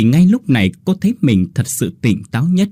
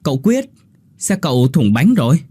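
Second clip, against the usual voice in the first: hurried call; 4 semitones higher than usual. Acted. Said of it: "Bà Lan vội nói".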